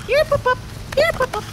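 calling a puppy. Real, not acted.

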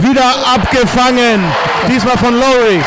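touchdown call. Real, not acted. Live interception and touchdown call.

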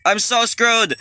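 high, loud wail of doom; panicked shout. Real, not acted. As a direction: cry it out in panic. Same words again, now shouted.

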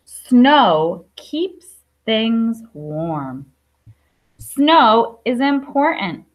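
slow, careful read-aloud of a picture book; reading to children. Acted. Teacher reading a snow book to her class, slow and clear. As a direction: read each line slowly for little listeners.

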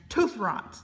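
a light pirate voice, scoffing; pirate grumble. Acted. Pirate scoffing at the candy canes, mock pirate voice. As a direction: sneer it like a pirate.

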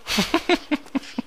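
airy high laugh; breathy laugh. Real, not acted. Laughing at friend's request.

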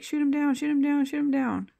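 villain ordering her troops to fire, shouting; commanding shout. Retold or imitated. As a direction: bark the order again and again. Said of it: "the Russian bitch is like".

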